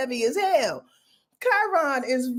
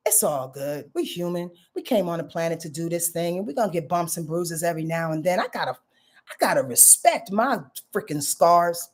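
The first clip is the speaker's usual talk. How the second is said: gentle self-talk; 5 semitones lower, 3 dB quieter than usual. Acted. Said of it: "kiss Chiron and say".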